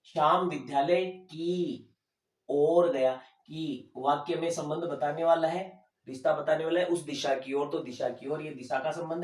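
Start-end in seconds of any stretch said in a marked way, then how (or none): 0.1-3.1 slow example. Shown as a demonstration. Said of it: "देखिए".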